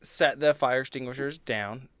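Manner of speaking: usual speaking voice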